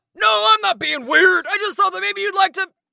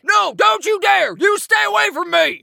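panicked yelling; scared shouting. Acted. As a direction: yell in fright to keep away. Dragon begs frog away.

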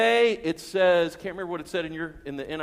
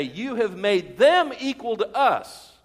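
louder, slow, aggrieved; indignant complaint; 3 semitones higher, 5 dB louder, slower than usual. Acted. Grumbling workers complain.

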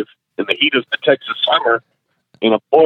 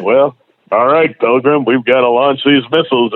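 hammed-up cowboy hero, only a hint of the real voice; bad John Wayne. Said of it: "I can do a bad John Wayne impression".

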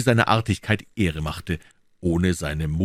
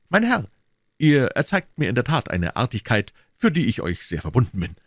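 put-on lightly raised polite young voice; courteous young musketeer; a hint of a gallant youth; young D'Artagnan; 6 semitones higher than usual. D'Artagnan voiced in read story.

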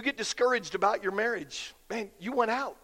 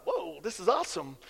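awed whisper-like thought; 5 semitones lower, 6 dB quieter than usual. Retold or imitated. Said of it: "walked in and thought".

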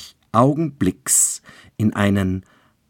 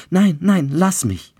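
high, loud panicked protest; frightened pleading; 11 semitones higher, 6 dB louder than usual. A narrator's reading. Bride fights out of Childeret's grip, frightened. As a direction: twist away in terror. Bride struggles in his arms.

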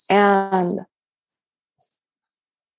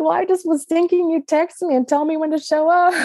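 laughing; 9 semitones higher than usual. Real, not acted. Sheepish retold reply, laughing.

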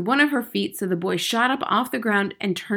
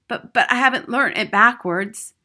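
higher, flustered schoolboy stammer; louder, stuttering objection; 4 semitones higher, 6 dB louder than usual. A narrator's reading. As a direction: stumble into a protest. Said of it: "stammered Wilford".

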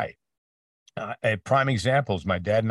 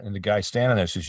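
ordinary talk, nothing marked

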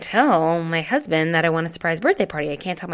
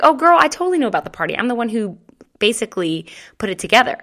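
sassy excited boast; 3 semitones higher, 4 dB louder, faster than usual. Retold or imitated.

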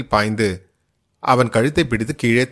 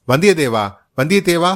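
calling after a passing rider, raised and a bit higher; shouting the name twice, the second higher; loud shout; 3 semitones higher than usual. Acted. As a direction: yell the name to stop the horse. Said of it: "பெரும் கூச்சலிட்டான்".

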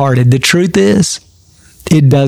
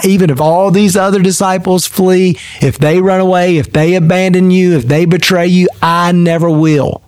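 building vow; 3 semitones higher than usual. Acted. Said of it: "Peter declared".

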